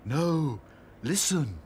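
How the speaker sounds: urgent Sad Sack. A narrator's reading. Sad Sack interrupts Dotty.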